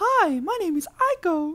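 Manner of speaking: slow, very high pitch. Voicing a toy named Aiko introducing itself: Mickey Mouse voice. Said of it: "Like fucking Mickey Mouse and shit".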